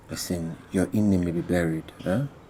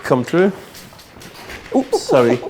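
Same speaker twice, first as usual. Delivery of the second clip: loud greeting; 4 semitones higher, 11 dB louder, slower than usual. Acted. Uncle greets woman loudly.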